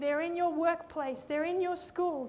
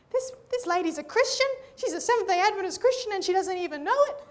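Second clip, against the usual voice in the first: excited thought; 3 semitones higher, 5 dB louder, faster than usual. Retold or imitated. Preacher's excited inner thought.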